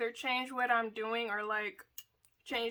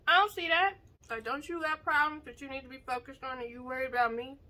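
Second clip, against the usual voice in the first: dismissive, defensive; faster than usual. Retold or imitated. Voicing a dismissive friend.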